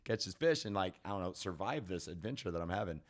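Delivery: high, loud, incredulous retelling; shocked disbelief. Retold or imitated. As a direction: blurt it out in disbelief. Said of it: "I was like".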